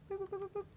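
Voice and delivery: high-pitched boop-boop noises; light, high run of boops; playful booping. Real, not acted. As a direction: boop along in a high little voice. Playful noises while placing things.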